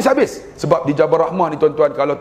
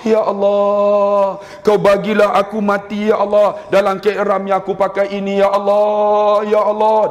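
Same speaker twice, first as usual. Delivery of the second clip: put-on old man's prayer; 4 semitones higher than usual. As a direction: stretch each ya Allah, half sung. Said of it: "Tapi dia doa".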